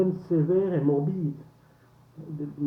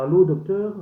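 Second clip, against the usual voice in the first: "allô" loud, then "docteur" drawn out slowly; slow, emphatic "allô, docteur"; slow emergency call; 4 semitones higher, 6 dB louder than usual. Shown as a demonstration. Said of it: "médecins urgentistes".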